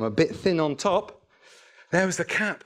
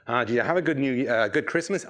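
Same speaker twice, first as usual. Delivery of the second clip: put-on lower, quick, rough American accent; 4 semitones lower, faster than usual. Boss asking an employee about Christmas, mock American accent. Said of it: "well, I'll do the accent".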